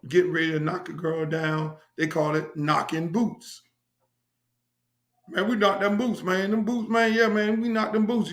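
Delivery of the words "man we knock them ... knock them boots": lightly imitated country accent. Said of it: "in the country accent and shit".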